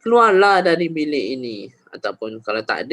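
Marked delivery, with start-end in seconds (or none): 0.0-1.7 firm, louder order to get out; harsher command. Shown as a demonstration. Teacher showing a harder version of the command, sternly. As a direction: snap the order firmly. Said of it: "lagi keraskan ayat dia".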